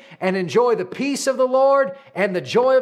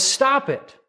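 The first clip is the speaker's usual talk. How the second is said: sharp, higher stop-it from Jesus; firm command; 5 semitones higher than usual. Retold or imitated. Jesus to anxious disciples, firm higher rebuke. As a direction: cut the worry off short and firm.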